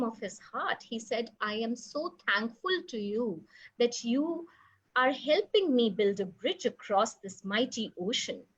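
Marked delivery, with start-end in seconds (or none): 1.4-8.4 grateful Rama. Acted. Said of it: "thanked the squirrel from the bottom".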